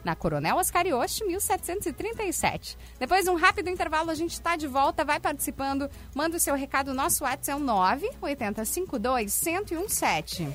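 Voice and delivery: upbeat radio ad read; hard sell ad. Acted. Reads sponsor ads on air.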